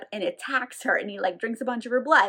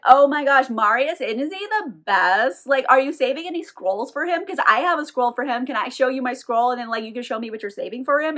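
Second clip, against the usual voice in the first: fake gushing. Woman flattering a shopkeeper, mock gushing. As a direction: gush to win him over.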